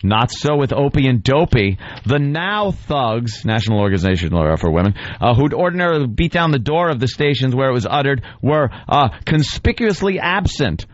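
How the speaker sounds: pompous recital, lingering on the silly names; mock dramatic reading. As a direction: read the screed aloud, relishing each insult. Reads the writer's piece mockingly.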